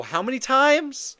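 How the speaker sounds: incredulous, rising and loud; demanding it, worked up; heated. Real, not acted. Heated rant about knockdowns.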